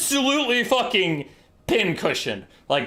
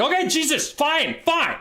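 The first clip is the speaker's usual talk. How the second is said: much higher, flustered giving in; exasperated high squeak; 12 semitones higher than usual. Acted. Lords cave to the raving king, high and flustered. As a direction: throw up your hands in a high panicky squeak.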